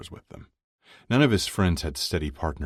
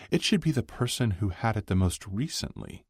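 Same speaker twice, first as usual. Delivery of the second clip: higher, unforced counter-proposal; lightly voiced female friend, objecting; 7 semitones higher than usual. Elena argues with Chuck's rule, lightly voiced.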